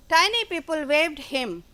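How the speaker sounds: each word slow and spaced for the class; slow reading aloud. Shown as a demonstration. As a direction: read it slowly so children follow. Teacher reads story line slowly. (धीरे-धीरे पढ़कर सुनाना)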